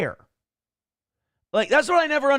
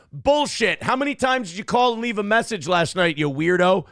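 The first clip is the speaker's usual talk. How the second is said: mock yell; 3 semitones higher than usual. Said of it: "he definitely got yelled at".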